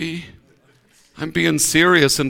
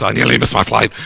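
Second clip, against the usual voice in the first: put-on northeast English accent; 7 semitones lower, faster than usual. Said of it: "real strong north, northeast accent".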